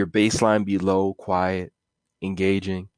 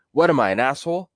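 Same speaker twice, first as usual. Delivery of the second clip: wiseguy retort; 5 semitones higher than usual. Acted. Catchphrase repeated.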